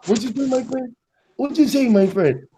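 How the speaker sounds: English put on with a Mexican lilt; light mock Mexican accent. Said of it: "Like I do it in Mexican".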